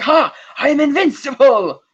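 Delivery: mock triumphant yell of a smug geek; triumphant shout. Boris springs up triumphant.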